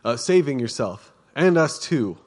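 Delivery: scornful taunt from the cross; scoffing. Acted. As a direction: sneer it out like a jeering criminal.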